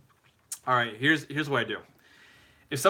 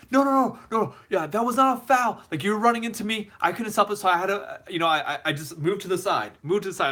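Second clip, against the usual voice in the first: high, agitated mock yell; imitated yelling; 7 semitones higher, 3 dB louder than usual. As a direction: imitate a player hotly protesting a foul. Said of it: "he was yelling".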